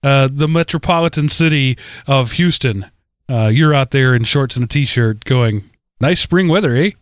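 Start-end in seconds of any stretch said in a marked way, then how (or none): 6.0-6.9 mock Canadian accent. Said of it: "pan-European accent you just affected".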